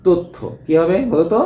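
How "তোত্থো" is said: তথ্য as "tottho", first vowel a closed o; closed o pronunciation. Shown as a demonstration. Teacher models the answer for students, তথ্য as "tottho". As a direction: say তথ্য with rounded o. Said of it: "এর উচ্চারণটা".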